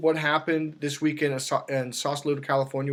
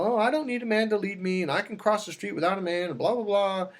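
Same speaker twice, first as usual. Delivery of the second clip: mock niece voice, higher; mocking quote; 4 semitones higher than usual. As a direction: lightly parody her insisting she needs no man. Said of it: "you're always going off about how".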